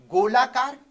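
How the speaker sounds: "गोलाकार" loud and in one piece; announcing the term. Shown as a demonstration. Teacher announces the next type to students, "गोलाकार" said loudly. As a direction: call out "गोलाकार" as a new heading.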